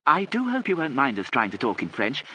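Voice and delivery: high-pitched polite call. A narrator's reading. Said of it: "raising her voice".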